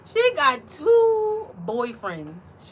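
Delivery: giggly teasing about her dog; squealing laugh. Real, not acted. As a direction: squeal it out in delight. Gushing about dog's boyfriends.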